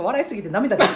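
breathless from laughing; after laughing hard. Real, not acted. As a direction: still laughing through the words.

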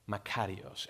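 "Makarios" said slowly as ma-KA-ri-os; Greek word makarios. Shown as a demonstration. Pastor teaches the congregation the Greek word "Makarios", carefully pronounced. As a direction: teach "Makarios" clearly, syllable by syllable. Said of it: "Everybody say makarios".

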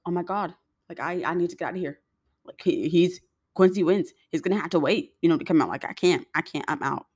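mild mock panic, words tumbling out; retold freak-out. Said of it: "And I started freaking out".

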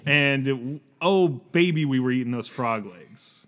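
slightly wrong copied voice. Pretend. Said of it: "mimicking your voice so that I can translate".

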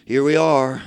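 1 mocking lazy preachers. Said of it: "like a lot of our preachers".

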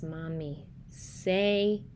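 very slow, understated let-down plea; mildly dejected, dragged-out request; disappointed child. Retold or imitated. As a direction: spell it out slowly, imitating a disappointed child. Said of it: "with disappointment".

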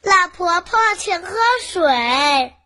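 slow, sweet and well-mannered; polite. Acted. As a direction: offer it nicely to the old woman. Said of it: "很有礼貌地说".

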